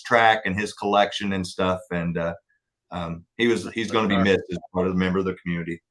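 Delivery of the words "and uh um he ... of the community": quiet, choked-up voice holding back tears; teary-eyed. Real, not acted. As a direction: voice soft and fighting tears. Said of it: "Sorry, I'm getting teary-eyed".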